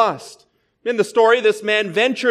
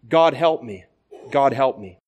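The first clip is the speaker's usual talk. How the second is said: whimpering prayer; 7 semitones lower than usual. A narrator's reading. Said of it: "ended whimpering".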